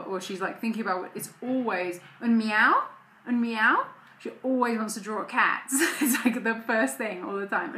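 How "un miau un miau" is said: put-on toddler voice. Mother imitating toddler asking for cat.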